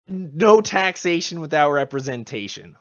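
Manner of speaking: loud rallying declaration, hammed-up; mock defiant cry. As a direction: proclaim it like a mock revolutionary. Retold defiant cry after harbor dumping.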